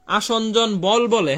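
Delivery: slow, spelled-out dictation; dictating the term slowly; slow dictation pace. Shown as a demonstration. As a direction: say each word slowly so students can write it. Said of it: "আসঞ্জন শক্তি বলে না".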